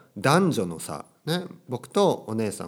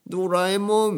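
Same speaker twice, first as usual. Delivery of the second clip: high, drawn-out cartoon whine; mock-tearful; 9 semitones higher, 4 dB louder than usual. Anime pair calling each other, high mock-weepy wail. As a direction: imitate two anime friends about to cry. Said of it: "泣きそう".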